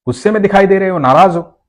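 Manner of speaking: innocent, teasing question; curious child. A narrator's reading. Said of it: "तो बोला".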